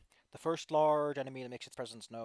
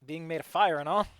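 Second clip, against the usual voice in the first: flirty monster voice; 2 semitones higher, 10 dB louder than usual. Acted.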